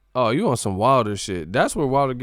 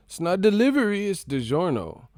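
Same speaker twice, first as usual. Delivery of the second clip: ad slogan voice; 8 semitones higher than usual. Retold or imitated. Quoting the ad slogan.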